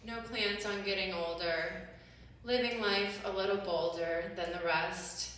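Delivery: measured spoken-word reading with pauses; deliberate poem reading, each line set apart; poetry recital. Acted.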